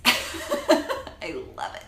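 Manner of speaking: slow laughing whisper. Real, not acted. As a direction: giggle it under your breath. Laughing confession.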